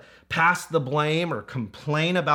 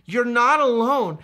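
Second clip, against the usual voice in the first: louder and higher, driving home that no one is alone; emphatic declaration; 7 semitones higher, 6 dB louder than usual. Real, not acted. Preacher assures the congregation, forceful and raised. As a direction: proclaim it with force from the pulpit.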